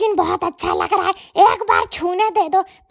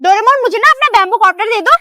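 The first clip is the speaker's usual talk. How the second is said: put-on whiny kid voice; 2 semitones higher, 5 dB louder, faster than usual. Kid begging Doraemon for gadget.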